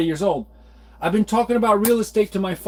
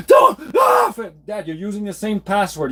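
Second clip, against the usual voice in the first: exasperated outburst; 2 semitones higher than usual. Retold or imitated. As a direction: cry out at dad, then rush the rest. Arguing with father over password.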